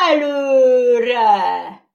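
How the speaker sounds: high, loud forward cry; rallying call. Acted. Horse starting the journey, loud call. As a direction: call them to go.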